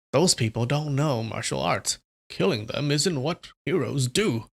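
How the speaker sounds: lightly voiced old priest; a hint of an old priest; old man voice. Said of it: "good old man voice for this priest".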